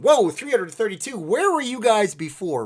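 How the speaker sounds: high, loud surprised whoa; genuinely surprised by the count. Real, not acted.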